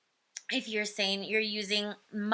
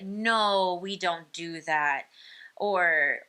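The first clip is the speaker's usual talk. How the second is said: a touch lower, firm parent correcting; 3 semitones lower than usual. Shown as a demonstration. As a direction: gently set a limit in a lower voice. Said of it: "you lower the tone of your voice".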